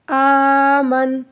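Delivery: आमन with the final न stopped, no vowel after it; pause form. Shown as a demonstration. Teacher showing the stop at the end of the word. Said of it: "आखिरी हरफ को साकिन कर देंगे".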